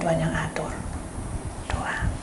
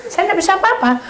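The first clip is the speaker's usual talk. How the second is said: normal talking voice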